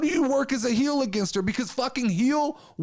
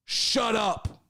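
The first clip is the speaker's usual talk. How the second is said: mock tough boss; slower than usual. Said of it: "I go".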